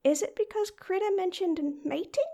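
ordinary talk

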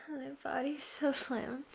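breathy exhausted whisper. Real, not acted. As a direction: whisper it, spent and limp. Exhausted after climax.

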